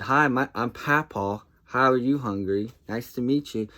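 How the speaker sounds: lightly acted formal how-do-you-do; mock introduction. Dad answering hungry grandson with a joke, mock introduction.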